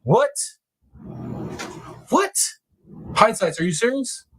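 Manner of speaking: sudden stunned what, rising high; shocked. Real, not acted. Streamer hearing of the mushroom arrest, stunned. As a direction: caught off guard by the news. Hears surprising crime news.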